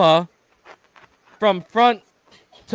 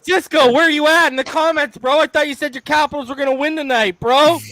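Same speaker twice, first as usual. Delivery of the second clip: teasing callout; 8 semitones higher than usual. Real, not acted. Calling out a commenter, teasing.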